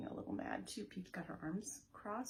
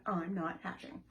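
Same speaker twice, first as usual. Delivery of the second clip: stubborn; 5 dB louder than usual. Shown as a demonstration. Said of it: "It's stubborn".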